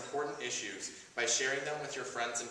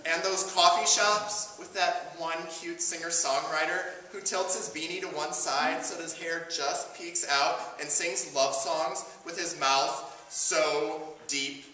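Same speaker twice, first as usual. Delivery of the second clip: emphatic, projected spoken-word delivery; prepared monologue; 4 semitones higher, 5 dB louder, slower than usual. Acted. Activist opens the night praising gay gatherings, spoken-word speech. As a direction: deliver it as a measured speech to a crowd.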